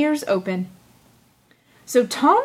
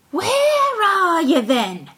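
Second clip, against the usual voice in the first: thief; 8 semitones higher, much slower than usual. A narrator's reading. Thief asks.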